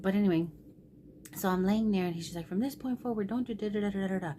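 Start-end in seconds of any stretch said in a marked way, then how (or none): 2.5-4.3 quick, mock rant trailing into nonsense; retold stressed scolding. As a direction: skim through the son's lecture. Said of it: "he's so upset, he's so stressed out".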